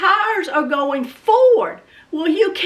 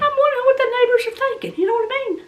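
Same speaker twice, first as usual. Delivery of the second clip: laughing; 7 semitones higher, much faster than usual. Real, not acted. Laughing at her own frenzy.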